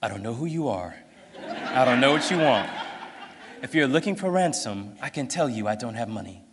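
measured movie-hero monologue, lightly imitated; Liam Neeson. Father warns his daughter's kidnapper on the phone, measured imitation. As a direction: deliver a deliberate threat with long pauses. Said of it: "And then Liam Neeson, he's, like, this old guy".

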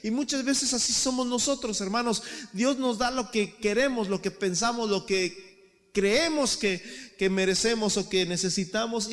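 rising fervent sermon, loud and high; preaching at full force. Real, not acted. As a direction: preach it, building to a shout. Predica a plena fuerza. (predicando con fuerza, cada vez más alto y fuerte)

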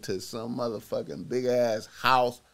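usual speaking voice

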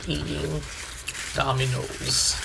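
talking while chewing; words round a bite of pizza; mouth full. Real, not acted. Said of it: "don't mind the swallowing and the chewing".

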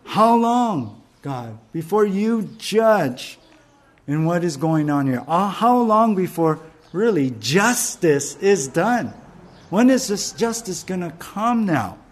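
imitating an impassioned appeal; passionate cry. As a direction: cry out for justice, voice lifted. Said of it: "they were passionate in saying".

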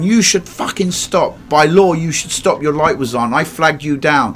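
loud, high and slow angry yelling; furious shout. Retold or imitated. Gregory yelling at the cab driver in the rain, furious. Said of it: "Gregory's going".

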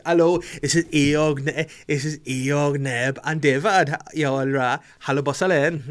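lightly put-on Welsh accent; jokey introductions with a touch of Welsh; mock Welsh. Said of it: "I don't know if that's Welsh".

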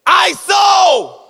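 high, loud call for the court. Retold or imitated. Son calling out a play on court, high and loud. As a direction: bark the call like a street baller. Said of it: "he just goes".

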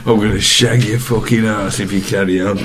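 lightly voiced Cockney hard man; mock London tough-guy threat; Jason Statham. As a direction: play a menacing action hero. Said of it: "Jason Statham".

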